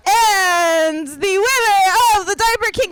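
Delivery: announcer voice. Acted. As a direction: drag out the big reveal. Announcing the winner.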